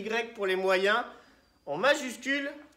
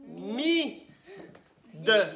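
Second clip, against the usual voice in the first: syllabes détachées; 6 dB louder than usual. Shown as a demonstration. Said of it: "combien de syllabes".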